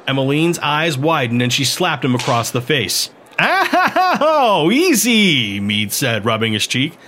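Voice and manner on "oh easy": startled. A narrator's reading. Slapped across the face.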